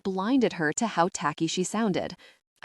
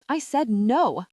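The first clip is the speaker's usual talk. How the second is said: angry; 5 semitones higher, 3 dB louder, slower than usual. Acted. Beth fighting off Sasha.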